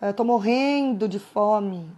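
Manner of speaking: slow, drawn-out mock whine about hunger; hammed-up hungry moan; exaggerated complaint. Shown as a demonstration. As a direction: stretch "morrendo de fome" out like you're starving. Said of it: "Então, exagero".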